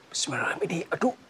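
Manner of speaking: soft, breathy whispered prayer. Real, not acted. Ghost hunter prays before approaching, fearful whisper. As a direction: pray under the breath, afraid.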